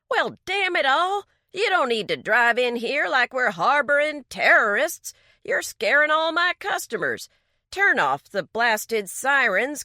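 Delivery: angry outburst. Acted. Garage owner scolds the police for the sirens, loud and angry. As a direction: tear into them for barging in.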